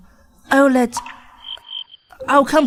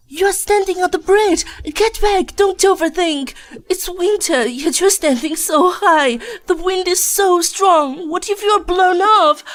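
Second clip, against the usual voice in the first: panicked pleading; 5 semitones higher than usual. Acted. Mother begging her daughter on the bridge to step back, panicked.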